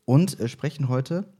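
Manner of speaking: echoing room sound; hallway echo. Real, not acted. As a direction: voice echoing in an empty hall. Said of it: "das hallt hier voll".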